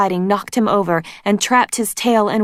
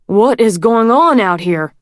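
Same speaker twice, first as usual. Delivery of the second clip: grumbling; 4 semitones higher, 6 dB louder than usual. A narrator's reading. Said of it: "Dune grumbled".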